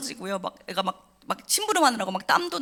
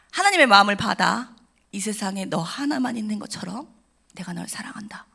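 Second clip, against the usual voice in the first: tender pastor's blessing; 3 dB louder than usual. Retold or imitated. Pastor hugging the crying girl, a tender blessing fading to a whisper. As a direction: bless her gently, ending in a whisper. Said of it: "목사님이 저를 안으시면서 이렇게 말씀하셨어요".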